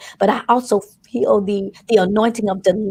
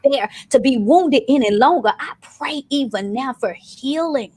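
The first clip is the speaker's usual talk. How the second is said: preaching prayer. Acted. Preacher praying over the congregation for healing, solemn and earnest. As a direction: pray over the congregation with weight.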